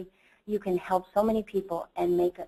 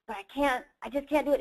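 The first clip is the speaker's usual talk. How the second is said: retold helpless protest; 5 semitones higher, faster than usual. Retelling her stuck plea for help.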